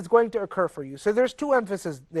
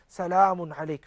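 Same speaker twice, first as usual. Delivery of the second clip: peacefully; 4 semitones lower than usual. Retold or imitated. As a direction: offer peace gently to the father. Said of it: "very peacefully".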